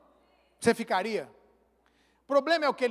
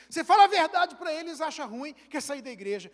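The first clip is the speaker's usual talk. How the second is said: complaining to wife; 4 semitones higher, 5 dB louder than usual. Retold or imitated. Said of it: "olha o que eu falava pra minha esposa".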